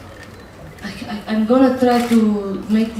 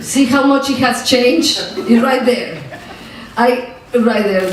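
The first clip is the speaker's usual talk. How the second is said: laughing. Real, not acted. Laughing, pointing out the change.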